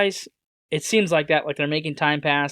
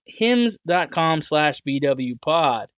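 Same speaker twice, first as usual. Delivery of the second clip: slow URL read; much slower than usual. Shown as a demonstration. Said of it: "For your personalized".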